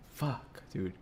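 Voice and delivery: normal talking voice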